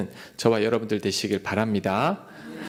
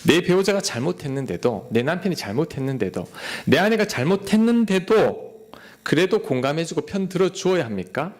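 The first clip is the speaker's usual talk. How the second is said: questioning congregant; 3 semitones higher than usual. Pretend. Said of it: "한 가지 질문이 있어요".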